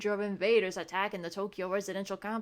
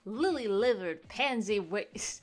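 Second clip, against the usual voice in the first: put-on Cajun accent; 4 semitones higher, 4 dB louder than usual. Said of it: "You cannot say that in a Cajun accent".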